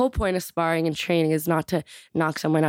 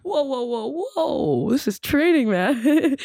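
alarmed whoa; 8 semitones higher, slower than usual. Retold or imitated. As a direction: back off a sparring partner, startled. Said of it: "I'm like".

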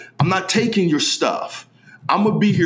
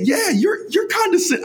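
retold blunt remark; 13 semitones higher than usual. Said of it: "I told her, I said".

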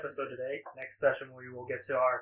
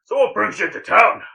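a touch higher, louder barkeep; curious bartender; 6 semitones higher, 9 dB louder than usual. Acted. Barkeep asks the traveler, lightly raised. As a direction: bartender chatting up a newcomer. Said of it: "He goes".

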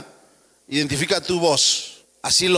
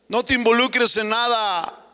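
a touch higher, mock tempter voice; tempting satanic voice; 7 semitones higher than usual. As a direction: lightly play the devil whispering doubts. (voz tentadora del diablo, apenas actuada)

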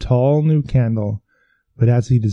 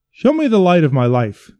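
pleading physician; 6 semitones higher, 3 dB louder than usual. Acted. Physician begs Death.

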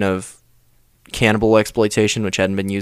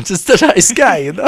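lightly mocking, higher and louder echo; Hitler; 10 semitones higher, 6 dB louder than usual. Co-host playing along with Hitler's perspective, mock innocent. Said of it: "tell it from his perspective".

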